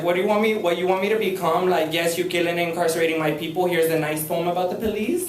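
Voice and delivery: sarcastic rant at those calling her poems angry; sarcastic comeback. Retold or imitated. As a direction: scoff at the publisher's notes. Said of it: "I'm like".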